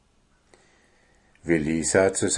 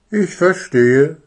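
smiling; 7 semitones higher, 6 dB louder than usual. A narrator's reading. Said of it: "sagte die Eule lächelnd".

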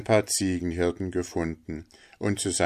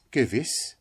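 unruffled linnet; 6 semitones higher than usual. Acted. Figure of the linnet.

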